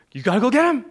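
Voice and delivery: high, urgent imitation of a panicking girl; panicked child. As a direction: mimic an eight-year-old sounding the alarm. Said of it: "it's this panic".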